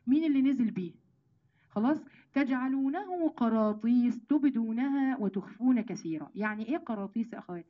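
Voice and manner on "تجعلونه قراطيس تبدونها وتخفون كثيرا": slow, drawn-out chanted verse; Quran recitation. Acted. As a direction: stretch each word of the verse. (تلاوة بطيئة ممدودة)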